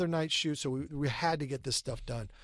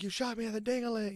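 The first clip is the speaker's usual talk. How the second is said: "You shot me in the ding-a-ling" said higher and softer; the misquoted take, raised and soft; wrong version; 7 semitones higher, 5 dB quieter than usual. Retold or imitated. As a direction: pitch it up, a little mock-hurt. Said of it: "I'm like".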